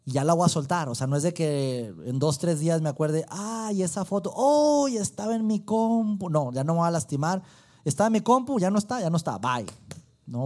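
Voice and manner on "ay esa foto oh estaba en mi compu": mock lament. Imagined regret over lost photo.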